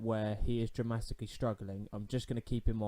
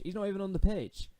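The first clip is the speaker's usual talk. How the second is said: "He's not even on the pitch" said much higher in disbelief; incredulous; 8 semitones higher than usual. Real, not acted. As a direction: squeak it out in disbelief. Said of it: "for goodness sake".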